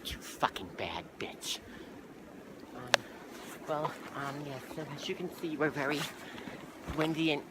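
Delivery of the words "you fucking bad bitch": hushed, cursing under breath; whispered aside. Acted. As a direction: whisper it to yourself off mic. Aside off air.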